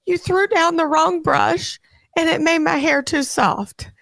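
upset daughter. Retold or imitated. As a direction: wail it like a distraught little girl. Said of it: "and she said".

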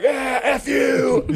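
high, drawn-out yell for laughs; mock shouted retort. Imitating teammates answering the taunt, hammed-up shouted retort. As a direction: holler back like rowdy teammates.

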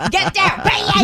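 "bayad" drawn out high with two syllables; redneck bayad. Retold or imitated. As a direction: say "bayad" like "bad" stretched into "bye-ad". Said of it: "in his total normal voice, except the word".

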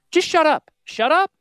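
exasperated shout. Real, not acted. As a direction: cut them off, fed up. Exasperated outburst at advisors.

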